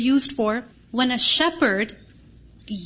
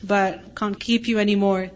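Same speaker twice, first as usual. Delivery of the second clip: apologetic farewell; 3 semitones lower than usual. Retold or imitated. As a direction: gently break the bad news. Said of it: "You don't tell the animal".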